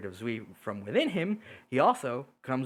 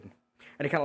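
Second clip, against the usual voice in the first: ordinary talk, nothing marked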